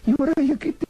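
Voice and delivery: lightly voiced cheeky rabbit puppet; a cheeky little bunny teasing the magician; voz de conejito títere pícaro.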